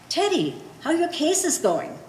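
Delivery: high mocking cop voice. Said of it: "So he say".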